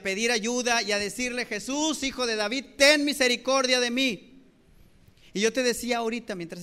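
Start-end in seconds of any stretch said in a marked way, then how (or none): 1.5-4.4 mild imitated cry for mercy, raised pitch; grito de súplica imitado. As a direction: call out pleadingly, building to the last phrase. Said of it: "empezó a clamar a gran voz y empezó a gritar". (clamor de súplica imitado, sin gritar del todo)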